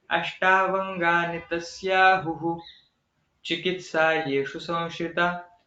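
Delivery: "अष्टावंगानि तस्याहुः", then a pause, then "चिकित्सायेषु संश्रिता", recited slowly with the sandhi broken; split into padas. Shown as a demonstration. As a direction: read it foot by foot with a clear break after "तस्याहुः". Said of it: "पाद भाग में विभाग करेंगे".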